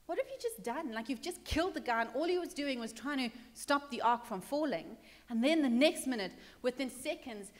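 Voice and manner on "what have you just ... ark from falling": softly voiced, incredulous complaint; mild mock anger. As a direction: protest to God in baffled, understated anger. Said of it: "First of all, he's angry".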